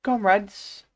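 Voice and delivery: put-on high-pitched eager young announcer; rallying cry from an eager youth; eager youthful cry. A narrator's reading. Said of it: "cried an eager, youthful voice".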